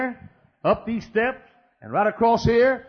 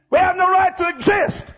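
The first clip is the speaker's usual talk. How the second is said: high cry; 12 semitones higher than usual. Real, not acted. Preacher cries out his stand.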